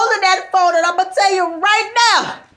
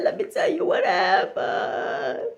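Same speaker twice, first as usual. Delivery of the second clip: hushed; 6 dB quieter, slower than usual. Retold or imitated. Friend sets up story.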